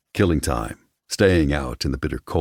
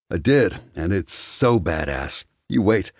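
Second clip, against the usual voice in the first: cocky, higher-pitched brag; boastful; 6 semitones higher than usual. A narrator's reading. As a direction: brag to your friends, pitched up. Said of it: "he boasted".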